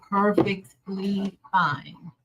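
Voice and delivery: Perfectly fine, very slow; slow drawn-out. Shown as a demonstration. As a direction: stretch every word out.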